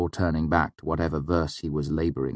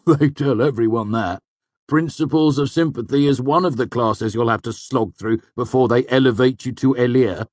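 loud, raised hearty voice; Manet, knowing old student; 6 semitones higher, 6 dB louder than usual. A narrator's reading. Manet explains classes to a newcomer, knowing and hearty. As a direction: set the newcomer straight, loudly.

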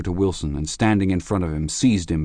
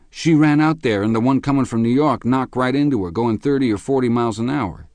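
high, louder, urgent account; agitated witness; 6 semitones higher, 4 dB louder than usual. A narrator's reading. Witness telling the policeman how she was hit, high agitated voice. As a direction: tell it pitched up and worked up.

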